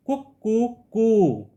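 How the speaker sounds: light mock crowing कुक कू कू; rooster call. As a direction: imitate a rooster, each कू a bit longer. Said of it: "तो मुर्गा". (हल्की-सी मुर्गे की बाँग की नकल)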